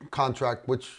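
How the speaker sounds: usual speaking voice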